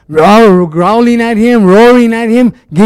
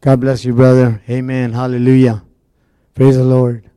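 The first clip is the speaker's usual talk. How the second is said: mock churchy phrases; 6 semitones lower, 4 dB quieter than usual. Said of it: "speak that Christianese".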